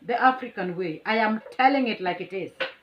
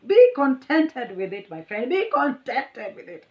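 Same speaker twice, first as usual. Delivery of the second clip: slow, stressed and louder scolding; 4 semitones higher, 5 dB louder than usual. Retold or imitated. Telling off the rude driver, slow and emphatic. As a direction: lay down the law slowly, each word weighted.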